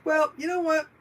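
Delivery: high mocking dismissive tone; smug studio voice. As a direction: sneer like a greedy studio boss. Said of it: "They're like".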